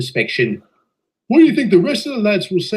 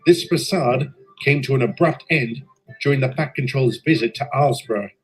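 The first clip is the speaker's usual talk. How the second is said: steady storytelling voice, looking back; story narration; 2 semitones lower than usual. A narrator's reading. Engine narrator telling listeners of the inspection, calm narration. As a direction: recount the tale evenly like a memoir.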